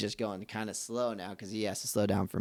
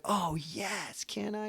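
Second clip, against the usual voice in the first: put-on much higher, eager little-girl voice; excited little girl; 11 semitones higher, 8 dB quieter, much slower than usual. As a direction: squeal it like a thrilled kid. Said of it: "she was all excited".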